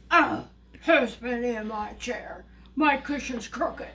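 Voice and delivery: lightly voiced father bear, slow and emphatic; a hint of a grumbling bear, loud start; Papa Bear. Father bear finding his chair disturbed, mildly indignant bear voice. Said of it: "Papa Bear goes".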